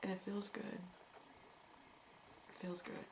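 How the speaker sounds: quiet, almost breathed; soft relief. Real, not acted. Speaker telling viewers she no longer apologizes, softly relieved.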